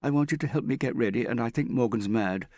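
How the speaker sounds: fraught, near tears. A narrator's reading. Prudence begs Hester to deal with Morgan, fraught, near tears. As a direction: plead and grumble while fighting back tears. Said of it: "she tried not to let the tears out".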